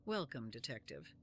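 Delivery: anime villain voice. Acted. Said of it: "like an anime villain".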